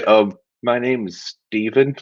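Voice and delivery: meek, hesitant, slowed down; shy little self-introduction; timid mumble. Shown as a demonstration. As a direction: say it like you'd rather not be heard. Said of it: "you can't just say".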